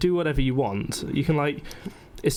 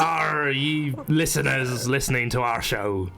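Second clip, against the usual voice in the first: pirate voice; slower than usual. Pretend. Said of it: "do we have to do the pirate voice".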